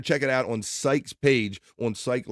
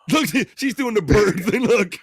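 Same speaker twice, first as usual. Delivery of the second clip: excited; 8 semitones higher, 6 dB louder than usual. Real, not acted. Host pointing at clip.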